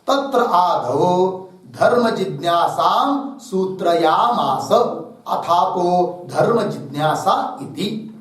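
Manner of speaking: slow, measured scriptural reading; a teacher reciting a sutra slowly to the class; Sanskrit text recitation. Acted. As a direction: intone the verse line by line. Reads Sanskrit text from book.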